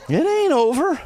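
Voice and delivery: high, loud, laughing declaration; high laughing proclamation that it ain't over; laughing shout. Real, not acted. Repeats it louder, laughing.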